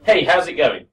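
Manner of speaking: "Hey, how's it going?" linked and smooth; model for class. Shown as a demonstration. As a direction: say it for the class to copy. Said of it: "if everyone together just tries".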